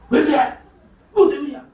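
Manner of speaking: irritated snap. Retold or imitated. Voicing an angry outburst.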